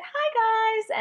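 high, loud beaming greeting; big cheery hello. Retold or imitated. Greeting two strangers at a table with a big, loud, beaming hello. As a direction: throw it out with your biggest smile. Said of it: "put on my biggest smile".

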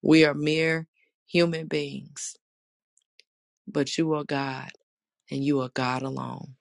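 earnest spoken prayer. Acted. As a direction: pray aloud to the congregation. Leads an opening prayer.

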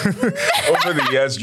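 laughing. Real, not acted.

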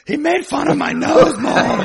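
put-on high, loud tattling child; whiny kid. Co-host imagining Enrique tattling, high whiny child voice. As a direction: tattle to mom like a little kid.

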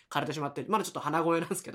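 a touch of real nasal congestion; slightly stuffed-up voice. Real, not acted. Host apologising to listeners after being ill, slightly stuffed-up voice. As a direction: talk with a slightly blocked nose.

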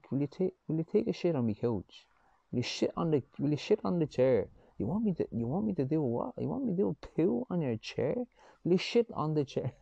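"shit" said for "seat", with a Mayo "sh" in place of the S; lightly voiced Mayo accent, "sh" for every S; mock Mayo accent. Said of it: "that S H thing going on".

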